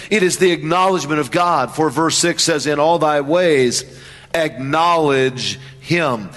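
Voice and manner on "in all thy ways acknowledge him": slow emphasis. Shown as a demonstration. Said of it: "slow, emphatic reading".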